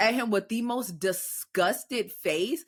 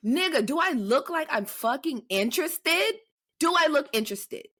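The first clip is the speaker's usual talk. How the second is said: higher, indignant challenge; indignant retort; 5 semitones higher than usual. Retold or imitated. Woman retelling her answer to a catcaller, indignant. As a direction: throw it back at him, offended.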